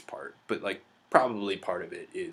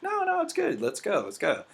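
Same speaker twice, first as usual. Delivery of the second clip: imitating wife. Wife's reply voiced in story.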